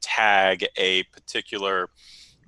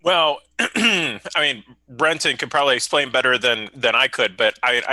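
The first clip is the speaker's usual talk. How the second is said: noticeably loud, raised explaining voice; super loud; 4 semitones higher, 5 dB louder than usual. Real, not acted. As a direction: talk too loudly into the call. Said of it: "you are super loud".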